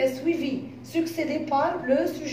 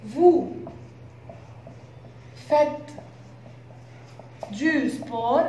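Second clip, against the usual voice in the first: "Vous", "faites" and "du sport" each after a long pause; teacher dictating slowly; word-by-word dictation; much slower than usual. Shown as a demonstration. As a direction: drop the words one at a time for students to write. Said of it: "in another way".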